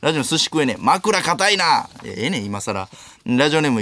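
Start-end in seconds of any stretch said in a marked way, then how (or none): 0.8-1.9 very slow read. Acted. Reading a last-words answer.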